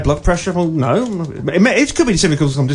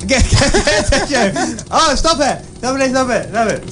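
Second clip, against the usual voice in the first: panicked yelps, much higher; flustered nosebleed panic, pitched up; 8 semitones higher than usual. Real, not acted. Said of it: "I've got a field recording of my nosebleed".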